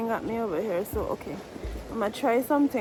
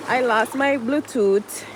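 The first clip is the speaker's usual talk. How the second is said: exasperated; 6 dB louder than usual. Real, not acted. Exasperated, loses another item.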